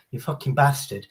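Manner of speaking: casual, playful swearing; joking insult. Shown as a demonstration. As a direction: toss it off as friendly banter. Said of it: "means she's having a laugh".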